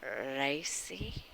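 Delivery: searching, coy; bashful word choice for chat; coy hesitant word. Real, not acted. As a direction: say it with a sly pause. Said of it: "how do we put it?".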